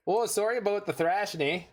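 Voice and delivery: mock Canadian apology with a drawn "eh"; Canadian accent. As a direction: tease the opponent in a friendly Canadian accent. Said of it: "Canadianify your opponents".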